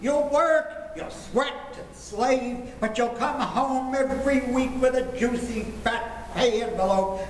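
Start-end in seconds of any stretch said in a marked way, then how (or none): 0.0-2.7 dramatic lecturing. Acted. Father lectures the would-be groom.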